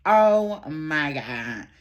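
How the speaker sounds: slow, stunned oh my God; shocked. Retold or imitated. Hearing her friend just slept with him too, stunned. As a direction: let it sink in, dumbfounded. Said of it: "I was in shock".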